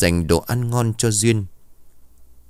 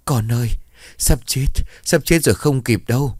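put-on wailing old woman; 5 semitones higher than usual. A narrator's reading. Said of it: "rồi khóc".

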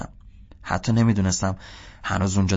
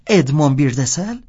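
puzzled guessing; 5 semitones higher, 5 dB louder than usual. Acted.

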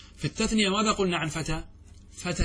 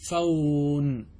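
slow model pronunciation; much slower than usual. Shown as a demonstration. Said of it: "تقول مصطفون،".

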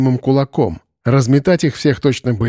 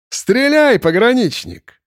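much higher mocking shout; taunting cry; 10 semitones higher, slower than usual. A narrator's reading. Possessed boy taunting Arkhip, high mocking cry. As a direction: dare him to shoot.

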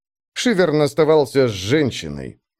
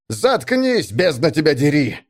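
angry snap; 4 semitones higher than usual. Acted. Shivern kicks laughing woman.

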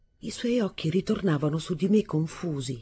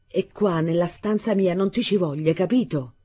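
angry repeat; 3 semitones higher, 3 dB louder than usual. Acted. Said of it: "le ripetei".

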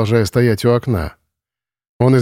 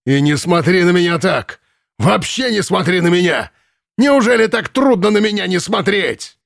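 put-on higher, frenzied yelling at the girl; frenzied shouting; 7 semitones higher than usual. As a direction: scream at her in a frenzy. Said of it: "Исступлённо кричал Ленц". (Ленц исступлённо кричит на девушку)

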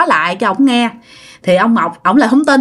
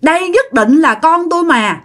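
wailing insistence; 7 semitones higher than usual. Retold or imitated. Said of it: "bà Tân cứ gào".

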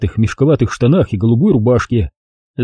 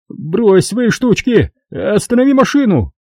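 high, slow alarmed demand; notary alarmed by the turn into the forest; frightened notary; 10 semitones higher, slower than usual. A narrator's reading. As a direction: order him to stop, getting scared. Narrator voices the notary.

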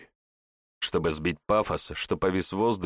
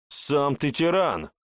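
sharp raised shout, a touch slow; 7 semitones higher, slower than usual. A narrator's reading. Hawk yells back at the grumbling old man, shouting. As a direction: hurl the insult right back at him. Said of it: "кричит ястреб".

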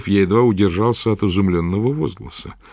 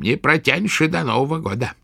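contemptuous witch; 13 semitones higher than usual. A narrator's reading. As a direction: spit the judgement down at him. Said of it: "с презрением".

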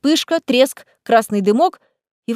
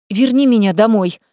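loud firm demand; 5 dB louder than usual. Acted. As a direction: insist at once. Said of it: "тут же потребовала Лиза".

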